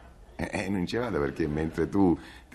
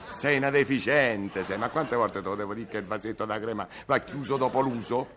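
shrill scolding italian mother; 6 semitones higher than usual. Acted. Scolding over the cream jar.

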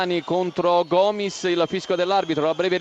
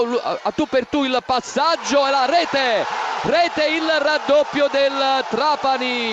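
excited goal shout; 4 semitones higher than usual. Real, not acted. Gol del raddoppio. (urlo del gol in radiocronaca)

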